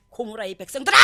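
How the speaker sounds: acted denouncing call, swelling at the end; cursing rebuke. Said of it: "욕을 퍼붓는 거야". (꾸짖으며 외치는 말투)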